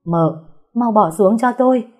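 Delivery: sharp rise into a narrated shout; loud command. A narrator's reading. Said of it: "mà nói lớn".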